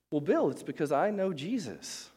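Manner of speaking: a hint of a cheerful classmate; way-too-happy girl. Happy classmate answering Bill, lightly cheerful and high. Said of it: "girls that was way too happy".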